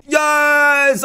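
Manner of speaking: excited yes. Real, not acted. Finally reaching the level end.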